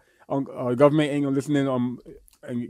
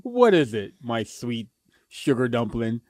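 mock sweet; 2 semitones lower, slower than usual. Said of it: "That was disgusting".

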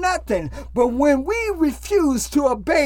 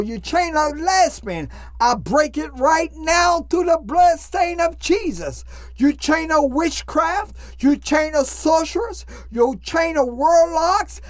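fervent rebuking prayer. Acted.

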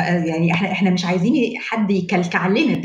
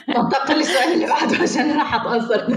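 laughing through a mock-moved line; half-laughing, jokingly touched; 5 semitones higher than usual. Real, not acted. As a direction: shrug off being moved with a laugh. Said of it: "أنا هبتدي أعيط".

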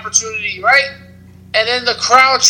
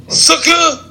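Booker T catchphrase; 6 semitones higher than usual. Retold or imitated. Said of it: "They messed with Booker T!".

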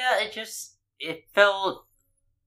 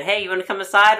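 lightly imitated invite, higher pitched; higher, casual quoted invitation; retold friendly invitation; 7 semitones higher, 4 dB louder, faster than usual. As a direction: lift the pitch as a cousin calling you in.

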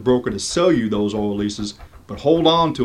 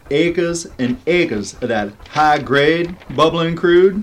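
excited; 4 semitones higher, slower than usual. Acted. Geologist reveals oil find.

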